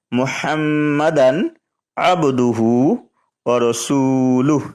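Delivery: measured chant of the shahada; kalima recitation. Shown as a demonstration. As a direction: recite slowly with stretched vowels. Recites again. (শাহাদাত তিলাওয়াতের সুরে পড়া)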